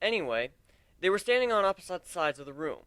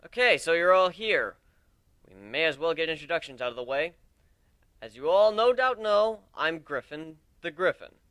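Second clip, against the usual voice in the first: addressing a crowd; 6 dB louder than usual. Acted. Captain addresses crowd of recruits.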